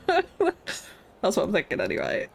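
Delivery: slow words dissolving into a giggle; laughing. Real, not acted. Amused at her own sauna plan, laughing through. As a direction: laugh at yourself as you say it.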